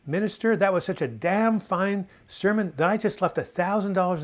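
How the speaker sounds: proud cowboy bragging; Texan again. Retold or imitated. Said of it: "The guy goes around and says".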